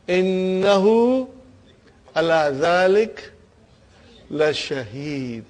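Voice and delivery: drawn out, measured recitation of the verse; slow, solemn chant of Innahu ala dhalik; slow Quranic recitation. Shown as a demonstration. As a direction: intone each word slowly like a reciter. Recites verse slowly to students.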